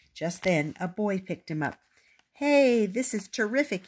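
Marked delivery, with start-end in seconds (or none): 2.3-3.9 put-on delighted boy. A narrator's reading. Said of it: "he said".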